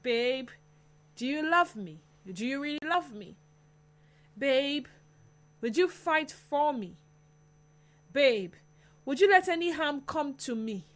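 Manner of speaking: put-on girlfriend voice. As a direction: play the worried girlfriend. Host acts girlfriend asking boyfriend.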